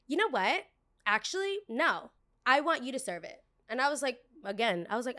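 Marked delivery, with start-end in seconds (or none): 0.1-3.4 bratty customer. Retold or imitated. Entitled customer voiced.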